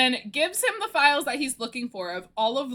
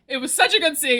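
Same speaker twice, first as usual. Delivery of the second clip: excited; faster than usual. Real, not acted. Gushing after excited yell.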